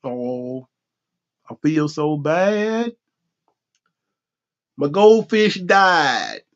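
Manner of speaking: a mock-droopy whine over the goldfish. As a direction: drag it out like a sulking kid. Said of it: "I start getting all droopy".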